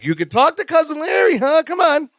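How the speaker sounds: high, wheedling fake-friendly voice; put-on friendly. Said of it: "He's trying to be all friendly".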